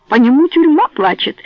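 loud, high outraged yell; shouting. Acted. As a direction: shout it across the shop. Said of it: "кричала она на весь магазин".

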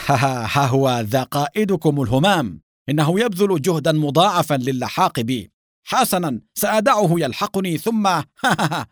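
high, loud gloating villain with mocking ha-ha-ha; devilish laughter. A narrator's reading. Treacherous agent taunting the captives tied behind him, devilish laughter. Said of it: "فأطلق ضحكة شيطانية وقال".

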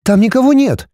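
mother scolds son, stern; mother scolding. A narrator's reading. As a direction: stop the boy's fantasy. Mother insists.

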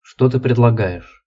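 slow, eerie otherworldly voice. Acted. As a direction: speak like something not of this world, slowly. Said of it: "заговорил Кармак своим потусторонним голосом".

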